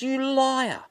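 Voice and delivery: high, loud outraged cry; indignant accusation. Acted. Old man accusing his lying wife, indignant. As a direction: hurl the accusation, pitch leaping up.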